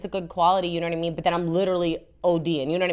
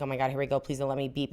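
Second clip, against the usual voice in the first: softly pleading to herself; hushed, nervous little prayer; quiet inner plea; 4 semitones lower, 7 dB quieter, faster than usual. Retold or imitated. Praying at the security scanner.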